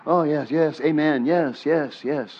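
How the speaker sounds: mock agreeable murmurs of assent; feigned understanding. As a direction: nod along as if you follow. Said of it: "don't just go".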